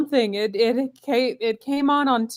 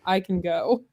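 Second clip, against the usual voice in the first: hoarse, losing her voice; raspy sick voice. Real, not acted. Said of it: "I didn't realize I sounded like this".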